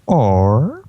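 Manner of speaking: lightly theatrical, long pauses between phrases; Discord. Acted. Discord thinking up another plan, lightly theatrical. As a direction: muse aloud in a put-on villain voice. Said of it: "Discord starts".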